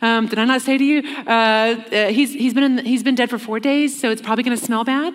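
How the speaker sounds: a hint of a worried sister fussing at his shoulder; fussing Martha. Martha at Jesus' shoulder, lightly fretting about the smell. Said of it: "I imagine it kind of in this voice".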